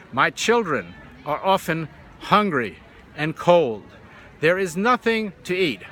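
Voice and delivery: slow, word-by-word delivery like edited tape; slow spliced voice. Retold or imitated. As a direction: imitate a voice stitched together one word at a time. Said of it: "slow but perfect".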